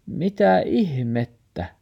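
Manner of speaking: grandma marvelling, slow and high; wondering exclaim. Acted. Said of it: "murfaari siunaili".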